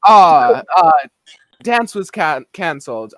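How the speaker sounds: half-hearted mock anger; Hannah but mad. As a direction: fumble through pretending to be cross, stopping and starting. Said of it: "Hannah, but mad".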